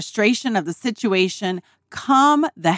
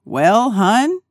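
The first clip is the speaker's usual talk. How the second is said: dad's calm advice. Retold or imitated. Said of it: "all my dad said".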